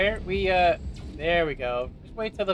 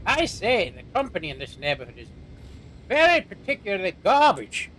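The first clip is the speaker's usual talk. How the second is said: mock British accent; 3 semitones higher than usual. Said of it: "some guy from Britain watching".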